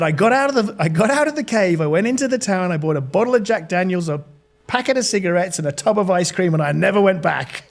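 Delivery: put-on American storyteller; lightly acted American accent. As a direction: imitate an American stranger confessing. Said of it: "this is my American accent".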